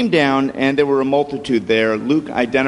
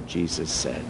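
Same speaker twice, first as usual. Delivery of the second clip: usual speaking voice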